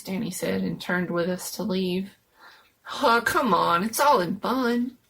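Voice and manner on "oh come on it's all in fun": dismissive protest. Acted. Jones defending prank.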